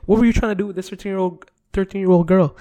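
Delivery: mock-calm host confronting a suspect; Chris Hansen. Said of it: "'Cause Chris Hansen's usually like".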